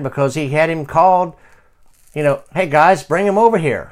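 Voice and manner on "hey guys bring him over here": raised, higher voice hailing helpers; acted summons to people nearby; calling out. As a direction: call the guys over.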